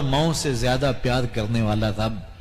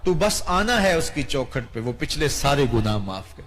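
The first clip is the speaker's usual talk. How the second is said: pleading call. Acted. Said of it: "رب بھی کہتا ہے".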